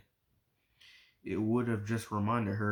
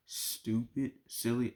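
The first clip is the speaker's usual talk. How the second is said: Stupid? and Silly? each lifted into a pointed rising question; questioning echo; slower than usual. Acted. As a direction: throw her own words back at her. Mother echoes her words, questioning.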